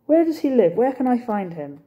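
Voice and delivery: put-on broken English with a French accent; a weary Frenchman explaining. Cafe owner telling Bertie about the circus, French accent.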